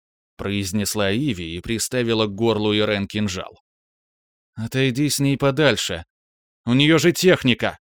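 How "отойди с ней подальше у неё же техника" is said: раздражённо, к концу громче и выше; с досадой на напарника; недовольно. A narrator's reading. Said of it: "сказала она недовольным голосом". (Иви недовольно одёргивает Рискара, повышая голос)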